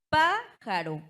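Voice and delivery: "Pájaro" con PÁ aguda y fuerte; énfasis en la sílaba tónica. Shown as a demonstration. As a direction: golpea el PÁ de "Pájaro", pausa y termina. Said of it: "pertenecen a las esdrújulas". ("Pájaro" como ejemplo: PÁ-jaro)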